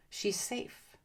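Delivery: quiet, hushed reassurance; soft reassurance. Shown as a demonstration. The brain tells itself softly, hushed and reassuring. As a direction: breathe it out softly like a comfort. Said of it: "tells your brain".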